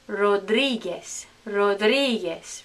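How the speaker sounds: slow Rodriguez as "ro-DREE-ges"; Spanish pronunciation. Shown as a demonstration. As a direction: round the o in Rodriguez, end on S. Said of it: "correct Spanish pronunciation".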